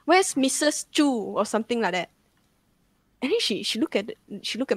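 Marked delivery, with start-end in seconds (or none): 0.1-1.1 higher-pitched mock distressed questioning; retold agitated searching. Possessed girl asking for people nobody knows, retold agitation. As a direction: call out for missing people, lightly acted.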